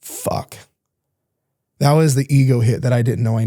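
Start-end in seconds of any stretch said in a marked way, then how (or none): 0.0-0.6 breathless whispered curse, softer; stunned curse. Retold or imitated. Realising the therapist is right, stunned whispered curse. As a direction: let it out as a shocked breath. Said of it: "And I went".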